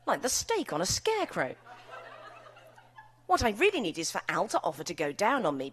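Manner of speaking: lively, expressive reading aloud to an audience; story reading. Acted. Author reading her novel to a laughing crowd, performed reading. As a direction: read the scene with comic relish.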